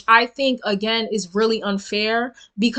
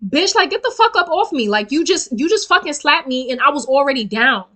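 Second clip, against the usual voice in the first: angry yell; 3 semitones higher than usual. Retold or imitated. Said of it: "I take my shoe and I'm like".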